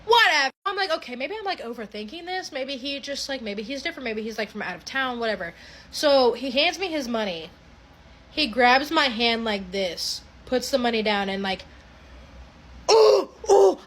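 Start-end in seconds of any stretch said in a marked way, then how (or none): 0.9-5.5 inner thought. Retold or imitated. Cashier reassuring herself about the strange customer, soft and doubtful. 12.9-13.8 high, loud shocked "oh, oh"; startled yelp. Retold or imitated. Cashier as the man grabs her hand, startled high yelp.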